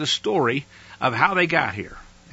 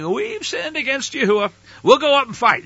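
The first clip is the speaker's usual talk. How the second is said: eager loud vow; 10 semitones higher, 5 dB louder than usual. Acted. People's late vow to fight.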